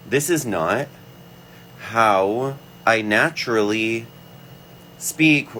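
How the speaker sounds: speaking up high in the head. Shown as a demonstration. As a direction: lift the voice up into the head. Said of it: "I speak down here".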